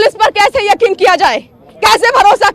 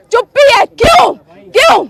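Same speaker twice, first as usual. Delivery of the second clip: raised, higher-pitched challenge to the officers; indignant demand; 4 semitones higher than usual. Real, not acted. Reporter confronting silent police, indignant demand. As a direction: fire out each question in real indignation.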